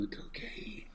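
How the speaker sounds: hushed, voiceless whisper; whispered aside. Pretend. Co-host whispering about drugs on air, whispered aside. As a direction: whisper it under your breath.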